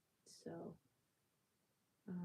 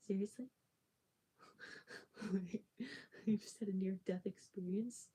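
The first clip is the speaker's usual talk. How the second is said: louder retold incredulity, broken by laughs; laughing mock disbelief; 3 dB louder than usual. Shivering child hearing the sales question, retold with laughing disbelief. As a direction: laugh through an indignant reaction.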